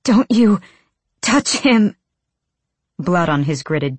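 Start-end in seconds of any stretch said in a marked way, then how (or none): 0.0-2.0 loud, high snarl; fierce, raised-voice threat; snarled warning. A narrator's reading. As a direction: snarl it out, word by word. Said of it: "Irene snarled".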